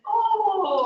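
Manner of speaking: high, loud Minnesota "Oh" with a laugh; Minnesota accent. Retold or imitated. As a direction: ham up a Minnesota "Oh". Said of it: "I start to say things like".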